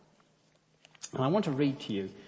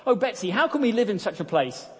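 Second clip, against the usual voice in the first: despairing; 8 semitones higher, 5 dB louder than usual. Acted. Corrie despairing to sister.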